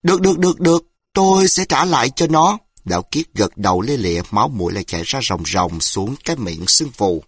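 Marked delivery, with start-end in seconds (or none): 0.0-2.6 high, louder hurried agreeing; frightened. A narrator's reading. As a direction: babble yes in fear. Beaten man hastily agrees.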